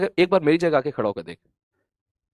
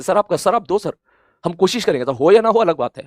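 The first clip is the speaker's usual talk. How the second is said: louder, gung-ho student vow, ready to fight; louder, determined promise to at least try; fighting spirit; 4 semitones higher, 5 dB louder than usual. Retold or imitated. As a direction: declare it like a determined student taking up the challenge. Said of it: "तेरे अंदर attitude होना चाहिए कि".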